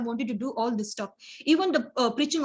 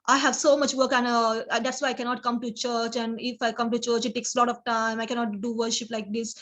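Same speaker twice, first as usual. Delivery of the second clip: grumbling excuse. Retold or imitated. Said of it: "it's like grumping way".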